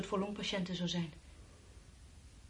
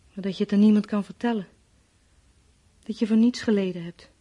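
much louder, crying out; anguished outburst; 11 dB louder than usual. Acted. Dying woman cries out about dying unheard, anguished. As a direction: let the despair burst out.

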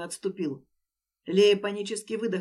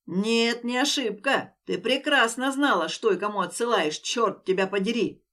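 loud furious accusation; angry yelling; 4 dB louder than usual. Acted. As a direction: hammer every word. Den keeps yelling at Leya.

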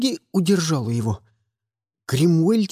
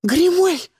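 much higher, louder yell; desperate yell; 11 semitones higher, 4 dB louder than usual. A narrator's reading. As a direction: scream his name across the battlefield. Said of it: "завопили мы с Фионой". (отчаянный громкий вопль)

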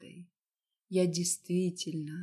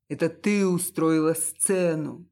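louder, hurled accusation; angry tearful shout; 7 dB louder than usual. Acted. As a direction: yell it through angry tears. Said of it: "заливаясь злобными слезами, закричал". (сквозь злые слёзы, громкий крик)

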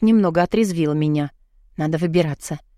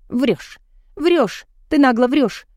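escalating higher cries of liar; angry accusation; 6 semitones higher, slower than usual. A narrator's reading. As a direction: throw each word harder. Heroine accuses mother of lying. (нарастающий гневный крик)

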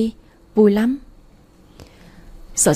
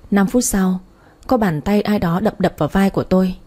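ordinary delivery

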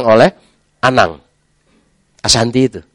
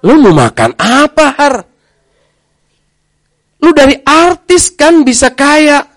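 mocking friend; 14 semitones higher than usual. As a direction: needle him about giving up money. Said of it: "teman-teman mencaci maki".

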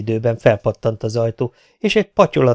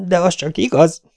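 firm and stern, a touch higher; the voice turns hard; hardening voice; 6 semitones higher than usual. A narrator's reading. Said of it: "keményedett meg a százados hangja". (keményebb hangon)

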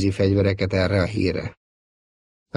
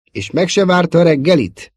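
raised, concerned questioning; worried; 8 semitones higher, 5 dB louder than usual. A narrator's reading. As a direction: ask it troubled and a bit taken aback. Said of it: "húzta össze a szemöldökét gondterhelten". (gondterhelten kérdezve)

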